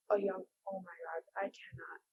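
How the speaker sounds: unvoiced, overwhelmed whisper; shaken whisper. Real, not acted. Viewer overwhelmed by the killings, whispering in shock. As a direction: barely whisper it, choked up.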